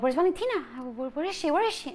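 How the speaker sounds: desperately calling out for her daughter, high and loud; frantic calling out. Retold or imitated. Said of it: "I'm like".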